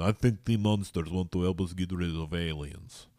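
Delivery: a light mock Russian accent. Vlogger redoing the movie line in a mock Russian accent. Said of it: "Well, it'd have to be Russian".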